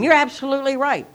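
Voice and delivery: self-mocking outburst in the checkout line; retold scream at the clerk. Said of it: "I began to scream".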